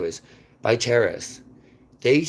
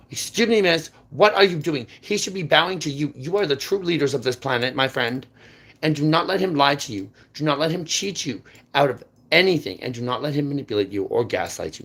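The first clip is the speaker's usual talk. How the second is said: high, loud, forceful plea to a stranger; urgent loud call-out; 4 semitones higher, 4 dB louder than usual. Retold or imitated. Speaker retelling telling a woman on the subway, urgent high loud call. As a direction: jump up and call out to her, insistent. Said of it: "jumped out of my seat and said".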